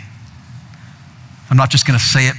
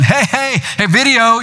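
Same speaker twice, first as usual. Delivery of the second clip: mock yell; 10 semitones higher, slower than usual. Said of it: "I'm yelling".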